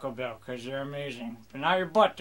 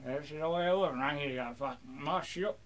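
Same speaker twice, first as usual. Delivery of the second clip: mock pirate rant to the crew; pirate rambling.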